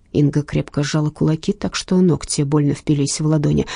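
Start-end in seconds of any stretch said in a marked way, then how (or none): none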